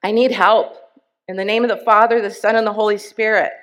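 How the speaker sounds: loud, desperate plea for help; desperate begging. Retold or imitated. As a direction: call out to God, begging. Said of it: "I begged".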